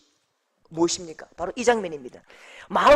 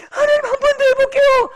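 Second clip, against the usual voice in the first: high, loud, eager vow to try once more; eager promise; 13 semitones higher, 6 dB louder than usual. Acted. Believer answering God's offer of another chance, eager and high. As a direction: call out to God, ready to try again.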